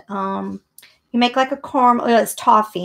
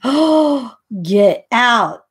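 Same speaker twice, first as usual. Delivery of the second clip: surprised; 7 dB louder, much slower than usual. Real, not acted. Excited recognizing the cookies.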